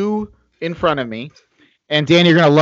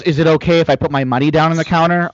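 quick patronizing mimicry; mock the customer's condescending question; faster than usual. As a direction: talk down to them, fast. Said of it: "all patronizingly".

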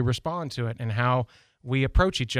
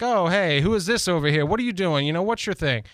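mock challenge; 4 semitones higher than usual. Imitating the testing challenge.

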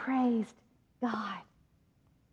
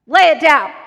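much louder, insistent order; insistent shout; 12 dB louder than usual. Retold or imitated. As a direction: insist now, full volume.

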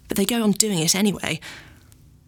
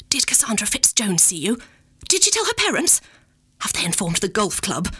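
mock horrified Mummy. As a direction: fire off the worried questions.

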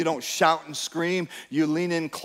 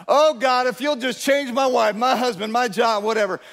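mock prayer; 5 semitones higher than usual. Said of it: "surrendering him somebody else".

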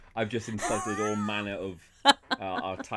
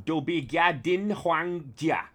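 forceful; 7 semitones higher, 4 dB louder, slower than usual. Shown as a demonstration.

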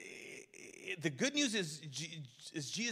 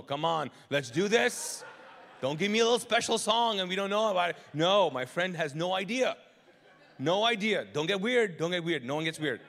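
loud, pushy coaxing; hammed-up nervous host urging the crowd; rally them loudly so nobody gets weird; mock urgent pep talk; 7 dB louder than usual. Acted nervous host at worship.

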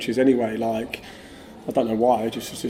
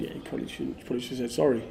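quoted advice; 8 dB quieter, faster than usual. Retold or imitated. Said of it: "some people have said".

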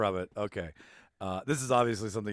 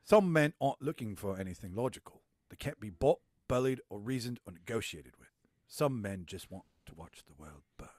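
Alfred Pennyworth impression. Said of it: "I'm gonna do, uh, Alfred Pennyworth".

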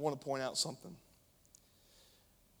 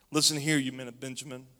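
a louder call from the king; acted shout; 5 dB louder than usual. King Saul calls out to his men, loud. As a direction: call out to the officers with force. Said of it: "Saul shouted to his officers".

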